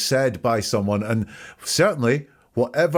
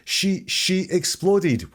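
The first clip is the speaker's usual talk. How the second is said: slow stuttered replay; 8 semitones higher, much slower than usual. Shown as a demonstration. Analyst slowly replays stutter.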